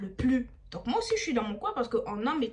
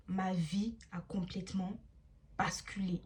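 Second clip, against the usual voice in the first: soft, slow, low ominous echo; grave lowered emphasis on "complètement"; hushed repeat; 4 semitones lower, 8 dB quieter than usual. Acted. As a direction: let it sink in, quietly. Dramatic turn of the story.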